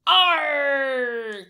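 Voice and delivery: pirate arr; mock pirate growl. Shown as a demonstration. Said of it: "say it with me".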